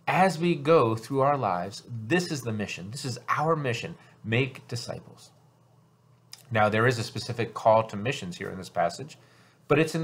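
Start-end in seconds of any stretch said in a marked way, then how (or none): 4.2-5.3 "Make" punched, slow and deliberate; stress on make. Shown as a demonstration. Pastor closing the point, stress on "Make". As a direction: land "Make" as the key verb. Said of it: "something here that I emphasize".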